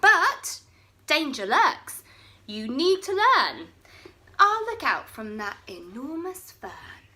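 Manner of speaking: high, loud teasing; mocking. Bonehead teasing his friends for running, loud and gleeful. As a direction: gloat over the daft friends. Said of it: "Bonehead laughed".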